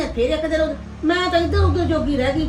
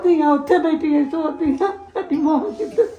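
tearful; 5 dB louder than usual. Acted. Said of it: "ਚਲੋ mummy ਬਸ ਚੁੱਪ ਕਰੋ".

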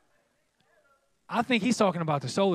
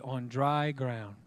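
slow; 5 semitones lower, 3 dB quieter, much slower than usual. Acted. Savoring the scripture phrase.

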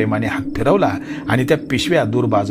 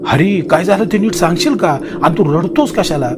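louder, higher firm question; firm demand; 5 semitones higher, 4 dB louder than usual. Acted. Natha demanding that crying Hari explain, firm raised voice. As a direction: make him explain clearly.

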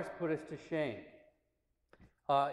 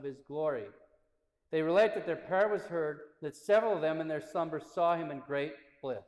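slightly raised, emphatic reading voice; solemn narration. A narrator's reading. Priest reads saint's martyrdom to listeners, solemn narration. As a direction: read the account aloud in measured phrases.

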